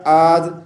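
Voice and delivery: आद with a plain glottal start; hamza for ain. Shown as a demonstration. Teacher shows the prayer-breaking mistake, आद with plain hamza. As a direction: say आद without the throaty ain. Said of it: "आइन को आपने हमज़ा नहीं पढ़ना".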